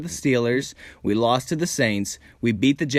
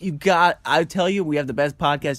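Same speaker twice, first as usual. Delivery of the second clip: overeager sales pitch; 3 semitones higher, faster than usual. Acted. Pushy podcaster pestering someone to listen, overeager sales pitch. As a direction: rattle it out like a pushy fan. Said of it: "like, overly selling it".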